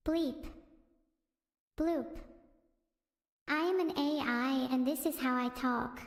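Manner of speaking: mock robot beeps, then a lightly stiff machine voice; a hint of a robot. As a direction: play a computer, stiff and even. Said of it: "do an impression of A I".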